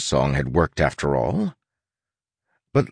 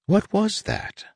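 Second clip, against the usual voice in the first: startled; 14 semitones higher than usual. Acted. Sudden alarm mid-conversation.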